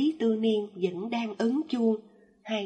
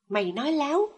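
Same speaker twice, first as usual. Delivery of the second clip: high, loud snapping accusation; furious yell; 5 semitones higher, 5 dB louder, faster than usual. A narrator's reading. Mother cursing her child, high furious yell. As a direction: spit the accusation with clenched teeth. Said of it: "nghiến răng mắng chửi".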